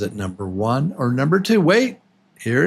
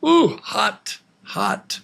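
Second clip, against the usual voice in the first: "hot" as if touching something hot, high "ooh" first; playful feeling of heat for the word "hot"; mock burning hot; 10 semitones higher, slower than usual. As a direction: pretend it burns, then whisper "hot". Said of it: "And number two is hot".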